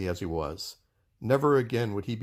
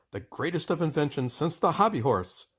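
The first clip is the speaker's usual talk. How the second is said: proud announcement; 5 semitones higher than usual. Acted. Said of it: "he shouted".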